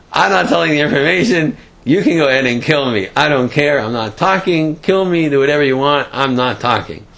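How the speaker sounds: a captive flinging back defiance, kill me then; defiant refusal. Retold or imitated. Captive defies captors at gunpoint.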